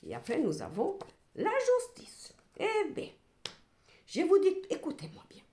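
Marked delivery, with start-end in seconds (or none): 4.1-5.4 higher, louder insistence; emphatic call. Real, not acted. Tarot reader insisting her viewers listen. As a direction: grab them by the ear with it.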